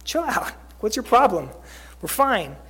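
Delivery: mock defensive brush-off; acted-out touchy retort. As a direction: push back as if wrongly accused.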